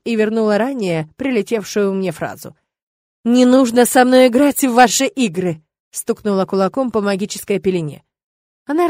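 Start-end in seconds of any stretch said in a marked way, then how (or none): 3.2-5.6 loud angry throwback. Acted. Witch storming off from the rector, loud angry retort. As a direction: hurl his own words back at him. Hitting the barrier.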